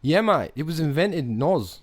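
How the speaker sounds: put-on Aussie mate; Australian accent. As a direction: answer proudly in mock Australian. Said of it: "you've sustained this accent".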